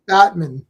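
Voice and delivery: "Batman" run together as "BAT-mun"; one word, "Batman", with the "man" reduced; Batman without hyphen. Shown as a demonstration. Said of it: "supposed to have the hyphen".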